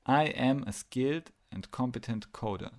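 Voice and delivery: affirmation stated firmly for others to repeat; leading affirmation. Shown as a demonstration. Repeat the following affirmations to yourself.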